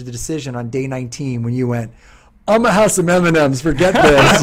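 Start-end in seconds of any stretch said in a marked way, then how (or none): 2.5-4.4 loud, high, careless blurt with a laugh; mock giving up. Dieter caving on day nineteen, loud laughing careless outburst. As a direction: toss the diet aside, laughing.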